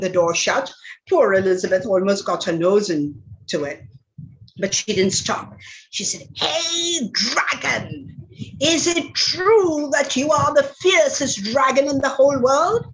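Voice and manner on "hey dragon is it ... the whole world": sweetly daring a vain dragon; high teasing challenge. Acted. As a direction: sing out the challenge higher, coaxing the dragon.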